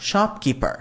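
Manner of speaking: slow, clear teacher model; slow dictation pace; slow model sentence. Shown as a demonstration. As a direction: spell it out slowly for learners. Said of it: "দোকানদারের English হচ্ছে শপকিপার".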